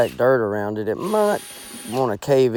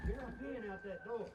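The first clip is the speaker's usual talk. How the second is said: strained high voice; 10 semitones higher, 23 dB quieter than usual. Acted. Scuffle in the blind.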